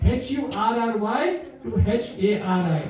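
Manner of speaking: letter-by-letter spelling with a chuckle. Shown as a demonstration. Teacher spells the words for the class, laughing. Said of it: "So not from curry to hurry".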